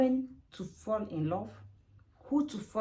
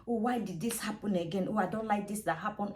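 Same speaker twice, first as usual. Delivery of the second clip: calm, even-voiced self-talk; calm venting. Talking to yourself to ease tension, calm. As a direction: say the complaint gently, without raising it. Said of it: "say it then in a calm way".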